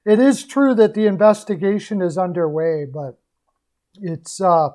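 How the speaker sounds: hoarse, losing the voice. Real, not acted. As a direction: voice going hoarse. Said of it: "I'm losing my voice now".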